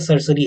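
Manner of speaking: सरसरी, with an s in place of t; certiorari as sarsari. Shown as a demonstration. Teacher giving students the preferred pronunciation, सरसरी as "sar-suh-ree". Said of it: "सरसरी होता है correct pronunciation".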